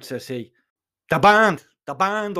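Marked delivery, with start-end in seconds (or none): 1.1-2.4 brief shout, dropping off on the repeat; moderately raised-voice shout. Acted. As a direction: exclaim it higher, then ease back. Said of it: "I shouted".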